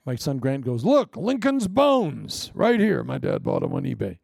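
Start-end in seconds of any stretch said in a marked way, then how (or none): 0.8-3.0 put-on kid's excited quote. Son Grant quoted showing bones.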